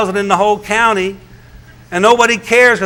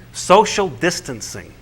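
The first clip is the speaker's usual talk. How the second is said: mocking; 4 dB quieter, slower than usual. Shown as a demonstration. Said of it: "Don't you love that one?".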